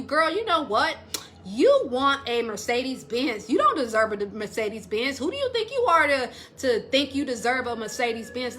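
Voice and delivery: mocking contempt. Mocking a belittling man.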